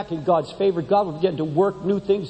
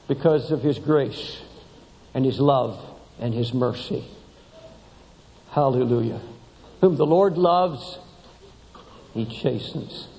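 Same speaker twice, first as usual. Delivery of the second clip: hushed preaching; 4 semitones lower than usual. Real, not acted. Preacher telling the congregation of God's love and mercy, low and hushed. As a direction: let each phrase settle reverently.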